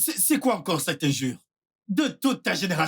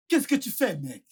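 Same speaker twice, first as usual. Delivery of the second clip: American accent; 3 semitones higher than usual. Shown as a demonstration. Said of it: "c'est aussi l'américain".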